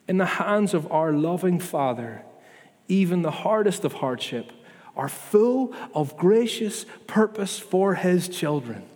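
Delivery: slowing right down to let each word of gracious purpose land; slow, deliberate repeat. Shown as a demonstration. Pastor repeating the promise to his church, slowly and deliberately. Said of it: "Can we believe that, please?".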